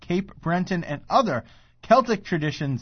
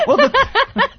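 monster truck announcer; 5 dB louder than usual. Acted. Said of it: "niche talent of yours is coming up with monster".

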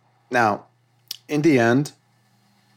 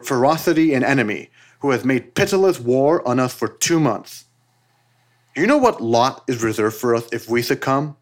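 louder, impassioned proclamation reading; rousing call to arms; 3 dB louder than usual. Acted. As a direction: read it like a fiery rallying decree. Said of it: "a call of action of sorts".

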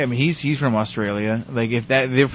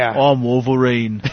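Wolverine impression; slower than usual. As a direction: say it slow like a half-hearted Wolverine. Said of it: "Is that what he sounds".

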